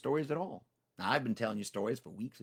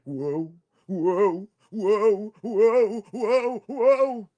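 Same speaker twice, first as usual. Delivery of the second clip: climbing, louder wobbling whoas, each one higher; rising whoa; 8 semitones higher, 11 dB louder, much slower than usual. Acted. Tricky wobbling on Tiger's back, rising panicked whoas. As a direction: yelp whoa as he slides about.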